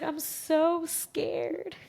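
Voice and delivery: understated fright; mild mock fear. Mother repeating to her husband that she's scared, mildly.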